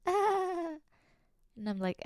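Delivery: words through a laugh; laughing slowly. Real, not acted. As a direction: giggle while telling.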